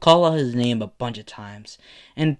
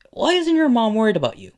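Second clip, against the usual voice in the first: much higher, louder incredulous question; incredulous demand; 11 semitones higher, 6 dB louder, faster than usual. A narrator's reading. Izuku questioning Bakugo about his mom, incredulous. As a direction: voice leaps up in disbelief. Acted insistent question to friend.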